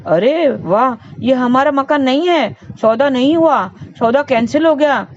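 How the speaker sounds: a mother cheering that the burnt house isn't hers; relieved joy. Retold or imitated. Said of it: "तो वो खुश हो गई".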